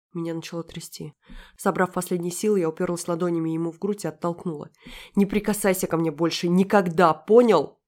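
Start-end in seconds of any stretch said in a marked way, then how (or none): 5.1-7.8 громкий крик, к «понял?» всё выше и громче; выкрикни запрет, нарастая к концу; гневный крик. Acted. Героиня отталкивает его в гневе. (гневно, с нарастанием до крика)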